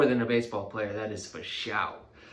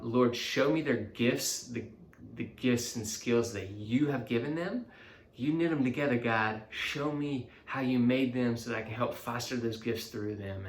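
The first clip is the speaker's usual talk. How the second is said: quoted prayer. Retold or imitated. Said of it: "I pray this over them".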